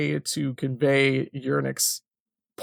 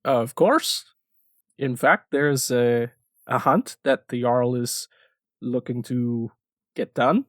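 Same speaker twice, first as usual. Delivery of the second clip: put-on Scandinavian accent. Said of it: "his little Scandinavian accent has grown more and more exaggerated".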